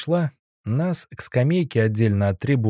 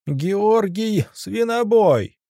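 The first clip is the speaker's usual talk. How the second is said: high, drawn-out arena announcer bellow; booming ring announcer; 11 semitones higher, much slower than usual. Acted. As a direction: call it out to the whole arena. Announcer introduces fighter.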